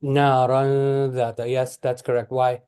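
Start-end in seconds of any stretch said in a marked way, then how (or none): 0.0-1.5 slow "Naran dhata" with a lingering n; measured tajweed demo of "Naran dhata"; held syllables. Shown as a demonstration. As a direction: draw out "Naran", two counts on the a of "dhata". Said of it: "this is also two syllables".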